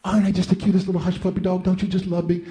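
fast, cutesy voice of the basset hound; cute dog voice. Retold or imitated. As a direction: coo like an adorable dog begging. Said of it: "she'd say".

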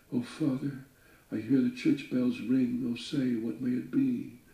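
lightly voiced anxious daughter; frightened little daughter. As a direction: lift up into a scared girl calling to her father. Daughter pleads with father.

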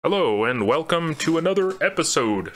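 a hint of a movie announcer. Host opening the podcast, mock movie-announcer voice. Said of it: "do I sound like a movie announcer?".

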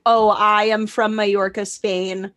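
lightly put-on Spanish accent; fake Spanish accent. Pretending at a party to be from Spain, fake Spanish accent. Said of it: "she fakes an accent around him".

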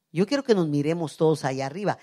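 normal talking voice

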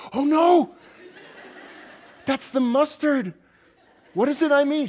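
high, loud, laughing panic; laughing horror. Retold or imitated. Husband laughing in horror at his own email typo, high and loud.

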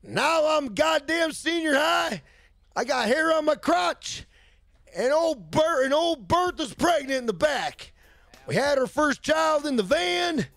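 high, hammed-up hick storyteller; grown-up viewer's voice. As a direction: put on a high, strained good-old-boy voice. Plays viewer grown up since seventh grade.

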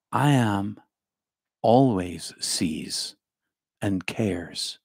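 slow hushed whisper on always sees. Real, not acted. Pastor assuring listeners, in a slow whisper. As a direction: breathe the words, barely voiced. Soft aside on divine care.

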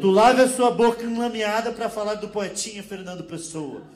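loud, slow Portuguese insult; man insulting the woman, loud slow Portuguese accent; mock Portuguese accent. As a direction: hammer it slowly and loudly, Portuguese accent.

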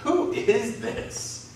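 high, very slow awed question; fearful amazement. Acted. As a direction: ask it stunned and afraid. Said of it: "In fear and amazement".

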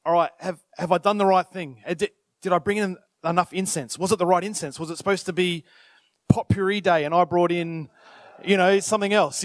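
low, anxious muttering to himself, dropping to a whisper; worried inner voice. Retold or imitated. Zechariah nervously checking himself, low and anxious. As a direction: fret over the checklist under your breath. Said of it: "he starts going".

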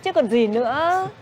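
high, drawn-out mock complaint; teasing retort. Mother teasing her son about being sidelined, playful retort.

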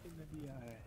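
weak attempt at a Jamaican accent. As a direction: try a Jamaican accent and give up. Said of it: "Can't do a Jamaican accent".

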